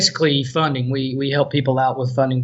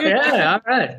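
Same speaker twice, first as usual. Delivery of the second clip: Southern drawl; 7 semitones higher, much slower than usual. Acted. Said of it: "That's pretty good. That was very, um, Walking Dead".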